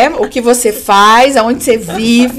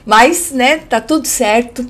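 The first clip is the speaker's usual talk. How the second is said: voice giving out. Real, not acted. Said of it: "A minha voz tá falhando um pouco".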